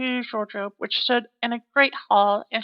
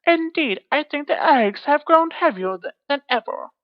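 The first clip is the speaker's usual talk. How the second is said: lightly voiced giantess; 4 semitones higher, 3 dB louder than usual.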